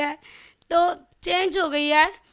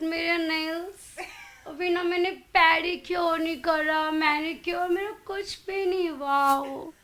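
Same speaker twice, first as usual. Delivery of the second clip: softer, fussy mock of someone fretting over looks; imitating Lopa; 4 dB quieter, slower than usual. Guest imitates the host fussing over her makeup, softer mock. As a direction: lightly play a friend panicking about hair and nails. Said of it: "मेरे जैसा करके बताओ".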